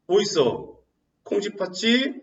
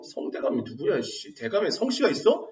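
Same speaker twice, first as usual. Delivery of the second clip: dismissive grumble; 3 semitones lower, 6 dB quieter than usual. Acted. Acting locals doubting the rumour.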